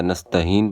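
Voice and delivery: نستعین as "nastaheen"; mistaken h for ain. Shown as a demonstration. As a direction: put an h in place of ain in نستعین. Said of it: "یہ بہت بڑی غلطیاں ہیں".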